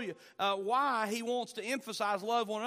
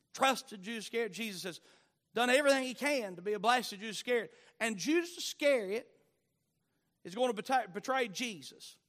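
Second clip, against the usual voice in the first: preaching at full force; 3 dB louder than usual. Acted. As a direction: hammer it home from the pulpit. Preacher building intensity.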